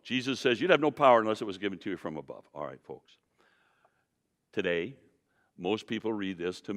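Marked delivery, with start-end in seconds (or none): 0.6-2.4 fast run through "You'd have no power unless it was given to you from above."; quick reading. Shown as a demonstration. Preacher giving a quick reading of Jesus' words. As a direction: rattle it off quickly. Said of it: "now I'm gonna put a reading on this".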